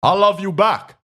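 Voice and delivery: hammed-up Obama voice; Obama impression. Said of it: "I can do Obama if I first say".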